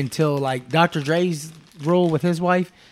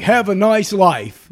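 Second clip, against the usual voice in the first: slow, drawn-out mock farewell; mocking send-off; 4 semitones higher, 5 dB louder, much slower than usual. Stranger dismissing an angry husband, mocking and drawn out. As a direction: stretch each word out, louder, imitating a dismissive parting shot. Retold dismissive parting shot in argument.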